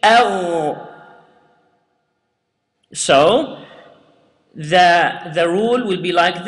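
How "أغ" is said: أغ with a heavy throaty ghain; strong ghain. Shown as a demonstration.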